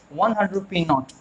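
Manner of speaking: very slow, word by word; slow model reading. Shown as a demonstration. Teacher reading the example sentence slowly to students. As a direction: spell it out slowly for the class. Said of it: "वैसे मैंने बोल दिया not".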